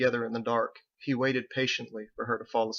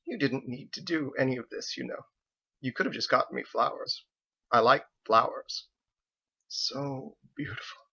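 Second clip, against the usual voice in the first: tender. Acted. Wife thanking husband tenderly for gifts. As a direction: melt back into fondness.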